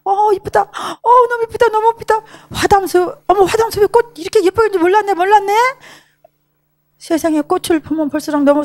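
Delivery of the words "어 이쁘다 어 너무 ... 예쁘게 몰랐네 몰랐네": high-pitched, gushing mimicry of onlookers; imitating admiring visitors. Visitors admiring flowers at Hwadam forest, imitated gushing. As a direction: coo over the flowers like a delighted crowd. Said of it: "사람들 이랬어요".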